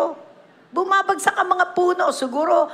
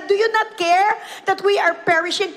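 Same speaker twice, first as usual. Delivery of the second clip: mock panic; 3 semitones higher than usual. Disciples waking the sleeping Lord in the storm, urgent mock panic. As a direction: beg like a scared disciple, half acted.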